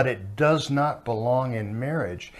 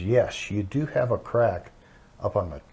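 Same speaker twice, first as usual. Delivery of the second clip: a calm, softer engineer's answer; calm reply; 3 semitones lower, 5 dB quieter than usual. Retold or imitated. Engineer calmly answers the angry managing director, softer and calm. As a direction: settle him down quietly and evenly. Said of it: "he looked at him very calmly".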